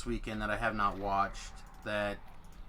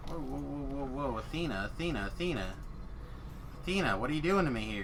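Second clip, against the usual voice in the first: alarmed; 3 semitones higher than usual. Real, not acted. Game character taking heavy damage.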